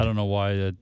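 masseuse voice. Retold or imitated. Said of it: "that's my masseuse voice".

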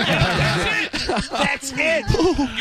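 demonstrating the voice's one high note; one-note demo. Shown as a demonstration. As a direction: hold a single high note. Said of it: "in that one note".

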